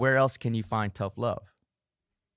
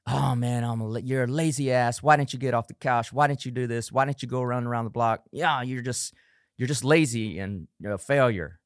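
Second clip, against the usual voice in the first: mock inner critic. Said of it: "You wanna lose weight".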